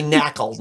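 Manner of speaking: knackle said with a flat a, not nickel; Minnesota vowel. Shown as a demonstration. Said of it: "not nickel".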